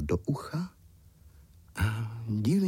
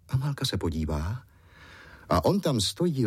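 plain reading voice

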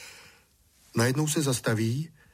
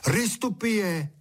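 a slow, high call to a bird; boy calling across to a bird; 9 semitones higher, slower than usual. A narrator's reading. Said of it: "koukal na ptáka u louže a volal".

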